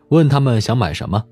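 ordinary talk, nothing marked

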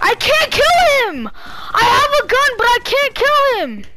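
raging gamer. Real, not acted. Stuck unable to kill enemy.

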